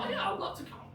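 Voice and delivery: high mock yes. Playing the stranger who says yes, in a high breathy voice. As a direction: squeak out a delighted yes. Voicing the invited person.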